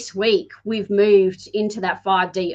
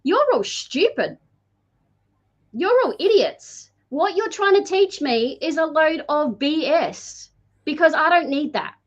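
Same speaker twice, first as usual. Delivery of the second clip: mock defiant kid, higher and scornful; defiant boy; 5 semitones higher than usual. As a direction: imitate a cocky boy sneering at school. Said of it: "going to school going".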